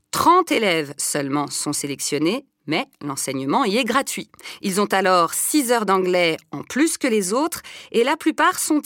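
measured documentary narration read; news voice-over. Acted. Reporter narrating a school report for viewers, steady news read.

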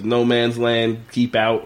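slow, weighty sign reading. Retold or imitated. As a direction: read it like a warning sign. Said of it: "a sign that says".

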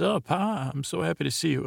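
a hint of a delighted kid greeting his father; mock gushing son. Son greets dad, acted quote.

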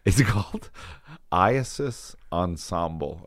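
reluctant, hushed confession; squirming admission, barely let out; embarrassed. Real, not acted. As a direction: own up to it slowly and softly. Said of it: "this is the most embarrassing thing".

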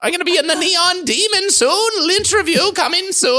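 high spooky trailer voice; creepy movie-trailer voice; horror voice. Pretend. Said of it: "my horror voice".

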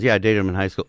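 imitating a casual, offhand answer; no big deal. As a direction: toss it off as nothing special. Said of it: "Literally, like, no big fucking deal".

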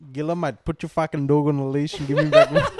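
laughing through a fast mock rant; cracking up mid-quote. Mock Centrelink call, laughing.

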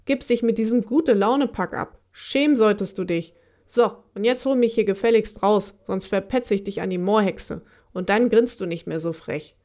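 a hint of a sulky monster's rage; mild hammed-up fury; angry. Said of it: "Jetzt wurde Maufel auch wütend".

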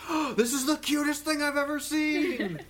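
high, slow, gushing praise; imitating a delighted voice actress. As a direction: coo over it like the cutest thing ever. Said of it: "she did the same thing".

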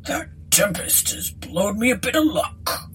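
rustic landlord, quietly delighted; relieved village innkeeper; pleased landlord. Acted. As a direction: marvel at your luck in a country voice. Voices pleased landlord in story.

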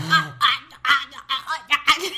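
loud put-on whining ah sounds; four-year-old wailing like a TV teen; Lizzie McGuire wail. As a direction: whine like a teen sitcom star. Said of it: "he says it like Hilary Duff and Lizzie McGuire".

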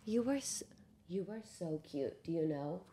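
soft whisper to the cat; whispered adoration. Real, not acted. Cooing to the cat held like a baby, whispered. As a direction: breathe it softly at the cat.

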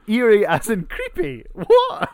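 high, loud, incredulous; rising into total confusion; baffled disbelief. Real, not acted. Co-host baffled by the creepy-spelling joke, rising into high loud disbelief.

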